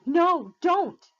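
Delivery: high panicked scream. A narrator's reading. Annabeth stopping Percy from looking up, screaming. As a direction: scream to stop him looking. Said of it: "Annabeth screamed".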